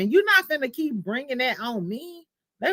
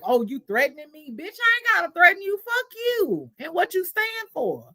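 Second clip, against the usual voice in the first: mock angry rant; 9 semitones higher than usual. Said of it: "He was like".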